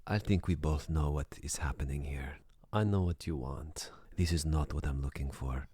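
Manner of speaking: put-on whispered, accented and a little reproachful; soft whispered voice. The caller accuses him of wanting only one thing, in a soft whisper. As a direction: hush it like a secret accusation. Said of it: "the soft voice that she was speaking".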